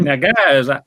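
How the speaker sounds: slow, loud rural Kentucky drawl; thick Kentucky accent. Retold or imitated. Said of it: "his accent is really thick".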